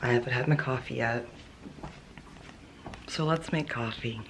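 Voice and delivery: morning voice. Real, not acted. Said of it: "hear my morning coffee voice".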